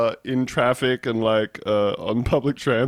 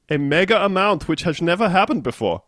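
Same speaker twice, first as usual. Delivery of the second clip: put-on Dutch accent; 6 semitones higher, 3 dB louder than usual. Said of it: "your Dutch accent".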